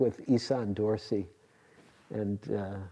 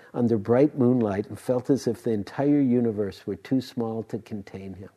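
louder, projected storytelling; story narration; 6 dB louder than usual. A narrator's reading. Teacher telling Jijo's story to listeners, narrating. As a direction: pick the tale back up and tell it out to the room.

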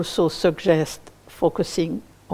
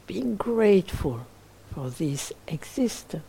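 guided meditation. Acted. Teacher leading listeners toward appreciative joy, in a spacious guided meditation voice. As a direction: guide gently, leaving long silences between phrases.

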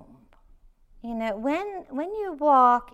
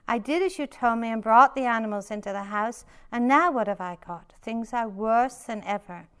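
mildly louder desperate plea; crying out; 4 dB louder, faster than usual. Acted. Poor man pleads with the rabbi, mild loud plea. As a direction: complain to the rabbi, pushing louder. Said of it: "returned to the rabbi and cried".

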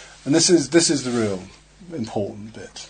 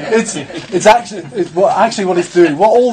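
laughing; 6 semitones higher, 8 dB louder than usual. Real, not acted. Laughing at a student's remark.

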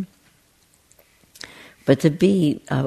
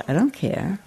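the lion's line, higher and laughing; 6 semitones higher than usual. Retold or imitated. Storyteller voicing the lion for her listeners, laughing. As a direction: laugh through the lion's shrug. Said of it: "And the lion says".

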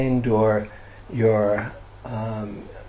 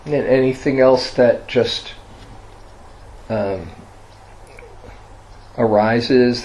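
guided meditation. Real, not acted. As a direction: guide listeners gently into resting, leaving long silences.

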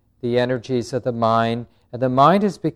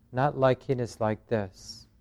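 gentle noting; 7 dB quieter than usual. Shown as a demonstration. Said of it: "then to notice the resistance".

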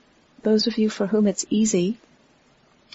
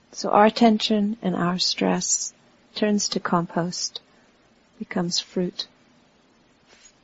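unhurried meditation guidance with long pauses; guided meditation. Real, not acted. Teacher guiding a standing group to relax into the earth, unhurried meditation voice. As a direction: talk them gently through the body, pausing between phrases.

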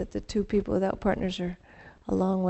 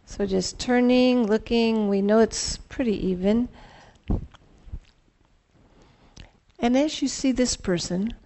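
calm grounding exercise. Acted.

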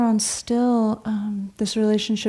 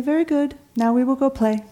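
put-on British accent, pitched up for "very good"; higher-pitched imitation of a British monk's accent; 5 semitones higher than usual. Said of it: "in his British accent".

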